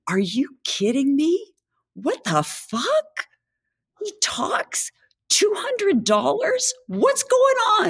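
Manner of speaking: high, squeaky half-whispered disbelief; incredulous. Acted. Joke's customer turning on the farmer, incredulous. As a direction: act floored, voice shooting up high.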